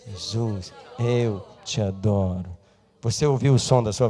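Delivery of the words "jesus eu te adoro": spoken out loud and slowly; loud slow declaration. Shown as a demonstration. Congregation repeats after the preacher out loud. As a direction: say it so you can hear yourself. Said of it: "Vai lá".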